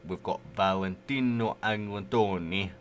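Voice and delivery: put-on slow, rolled Italian accent on the name. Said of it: "Don't know why I done an Italian accent there".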